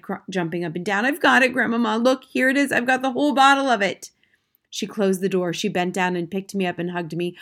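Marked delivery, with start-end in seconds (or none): 1.0-4.1 loud, high, thrilled; excited. A narrator's reading. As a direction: show off the prize excitedly. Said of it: "I cried".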